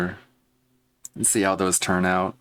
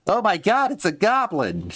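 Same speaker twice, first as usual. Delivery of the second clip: panicked character voice; 13 semitones higher than usual. Acted. Voicing characters for recording.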